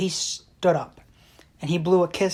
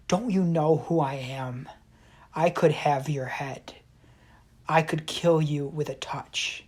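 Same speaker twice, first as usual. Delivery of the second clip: menacing threat, slow on the last line; menacing commander. Retold or imitated. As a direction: threaten him like a feared warlord. Warlord threatens the monk.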